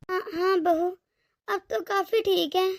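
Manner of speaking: slow, weak put-on voice of a sick mother-in-law; faked sickly voice. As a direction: pretend to be ill and frail, slowly. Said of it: "ये acting करना छोड़ दें". (बीमारी का नाटक करती धीमी, कमज़ोर आवाज़)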